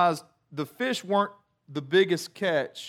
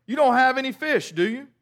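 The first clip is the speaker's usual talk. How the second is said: called out from the shore, a little higher and louder; Jesus calls to the disciples from the shore, raised voice; calling out; 5 semitones higher, 3 dB louder than usual. Retold or imitated. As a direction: call across the water to the boat.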